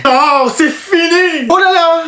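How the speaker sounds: slow, high-pitched despair; theatrical wail. Acted. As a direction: lament as if all is lost. Pupil despairs over bad mark.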